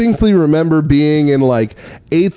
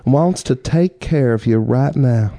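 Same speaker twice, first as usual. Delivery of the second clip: put-on Kentucky accent; 3 dB quieter than usual. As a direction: lightly imitate a disarming Kentucky woman. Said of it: "she's from Kentucky".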